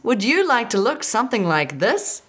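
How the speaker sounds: high, breathy glamour greeting; breathy vintage purr. Acted. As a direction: purr it like an old Hollywood starlet. Campy host greeting viewers.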